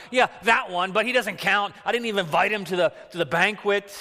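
put-on Yiddish accent. Jesse voiced dismissing youngest son.

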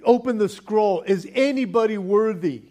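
booming call to all creation; angel's loud challenge. Retold or imitated. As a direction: proclaim it out loud like a herald. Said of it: "He is saying".

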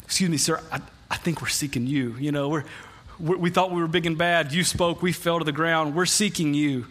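a touch of meekness, stammering slightly; mildly timid. Acted.

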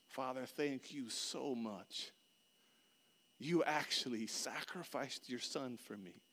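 slow, softened prayer of thanks; heartfelt prayer. Acted. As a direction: pray slowly and earnestly, savouring each phrase.

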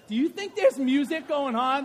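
loud, rising call to the room. Real, not acted. Preacher asking the congregation about the music, loud rising call. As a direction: lift it up and throw the question out loud.

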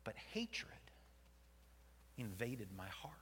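hushed, breathy admission; whispered confession. Acted. Jonah confessing his hatred in a whisper. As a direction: let it slip out softly.

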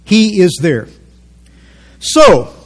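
ordinary talk

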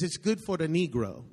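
imitating a waitress's foreign accent; lightly accented English of a restaurant waitress; mild mock foreign accent. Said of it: "And in her accent".

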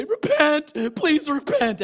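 high, very loud mock preacher's yell; shouted exhortation. Running up to a stranger to convert him, shouted exhortation. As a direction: holler it like a hammed-up street evangelist.

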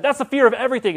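high, loud flat pronouncement; loud mock explanation; matter-of-fact know-it-all. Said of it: "And she said".

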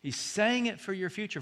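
usual speaking voice

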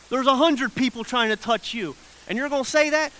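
mock incredulity, pushed up at the end; sarcastic. Disciples pointing out the crowd to Jesus, sarcastic. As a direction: imitate disciples challenging an absurd question. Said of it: "pick up on that sarcasm".

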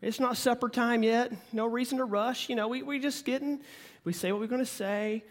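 lazy, unhurried Oklahoma drawl; slow Okie drawl. Shown as a demonstration. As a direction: stretch it out like an Okie with nowhere to be. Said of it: "slow Texas drawl like this".

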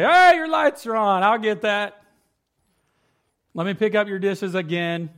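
fake-cheerful jab at the family; mock-helpful, loud and high; sarcastic. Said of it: "I say it in a sarcastic, joking way".

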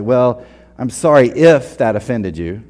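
slow, grudging fake apology; mock non-apology. A preacher mocking people's fake apologies, slow and grudging. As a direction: lean on the if, insincere. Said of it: "we'll throw in lines like".

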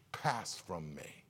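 hushed anguished prayer. Acted. Jesus praying in agony.

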